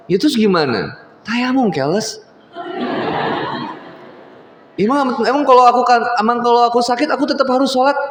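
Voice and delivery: put-on high, whiny kid voice; whiny daughter. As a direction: play the sulky little girl. Daughter voiced in retold dialogue.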